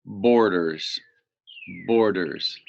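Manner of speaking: Borders said clearly, BOR-ders; teacher modelling a word; model word borders. Shown as a demonstration. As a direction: sound out Borders for young learners. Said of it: "Can you say that word?".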